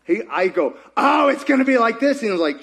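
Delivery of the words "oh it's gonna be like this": raised, louder-edged mock realization; excited guess. Preacher acting out her guess to God, excited. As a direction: eagerly play out a sudden guess.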